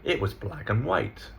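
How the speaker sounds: "and" reduced to a weak und; unstressed linking word. Shown as a demonstration. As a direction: pass lightly over "and". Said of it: "But we don't stress it".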